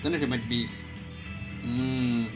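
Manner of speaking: ordinary talk, nothing marked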